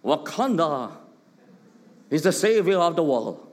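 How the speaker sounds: a light put-on African accent; Wakanda African accent. Shown as a demonstration. Preacher mimics Black Panther for the congregation, light African accent. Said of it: "we speak in the Wakanda African accent".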